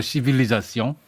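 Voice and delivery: 시빌리자시옹 pronounced the French way, ending in -syon; French pronunciation. Shown as a demonstration. Scholar quoting the French term to the panel, 시빌리자시옹 in French pronunciation. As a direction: say 시빌리자시옹 as French "civilisation", see-vee-lee-za-syon. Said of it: "불어 발음으로".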